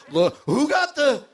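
high, loud teasing voice; mock diner teasing. Restaurant diners teasing the fajita orderer, high and mocking. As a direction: rib the guy with the sizzling plate.

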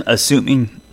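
throat catching mid-word; choking on a drink while talking. Real, not acted. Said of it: "sorry, I'm choking up".

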